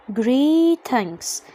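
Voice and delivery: GREETINGS with a hard g. Shown as a demonstration. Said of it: "صوت الجي هنا ج". (نطق greetings بجيم مصرية في أولها)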